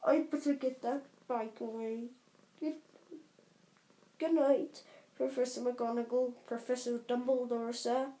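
choked-up muffled giant voice. Acted. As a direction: speak thickly after crying. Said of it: "said Hagrid in a muffled voice".

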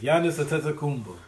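Giannis Antetokounmpo in a loud Greek-style accent; overdone foreign pronunciation. Shown as a demonstration. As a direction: say Antetokounmpo with a thick put-on accent. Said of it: "I said it with an accent".

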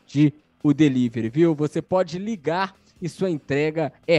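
upbeat radio ad read; hard sell ad. Acted. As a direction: pitch the sponsor with energy. Reads a sponsor ad live.

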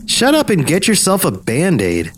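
mildly hammed-up annoyance; exasperated retort. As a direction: tell off a tiresome ghost.

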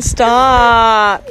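sharp stop. Real, not acted. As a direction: cut her off. Scolding friend.

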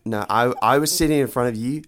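Australian-sounding dude voice; Todd. Acted. Todd explains himself to Louise, Australian-sounding. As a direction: fumble it in a put-on Australian-like accent. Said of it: "why are you Australian".

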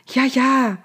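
high, dismissive assent; impatient brush-off. A narrator's reading. Pharaoh brushes Moses off.

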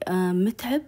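mildly fearful, questioning call; imitating a hesitant, frightened call; retold scared voice. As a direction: tentatively call his name, a touch afraid. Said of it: "جلست أقول بصوت كذا خايف بشوي شوي".

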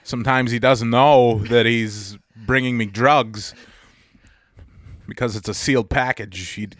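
halting impression with long odd pauses; Christopher Walken. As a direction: break the sentence in strange places, like the actor. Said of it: "show him exactly how you would say".

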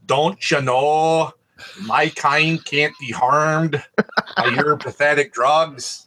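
put-on slow, hammy vampire line in a southern Wisconsin accent; drawn-out southern Wisconsin vampire. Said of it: "southern Wisconsin accents".

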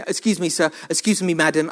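waiter voice. Retold or imitated. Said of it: "I don't speak like that".

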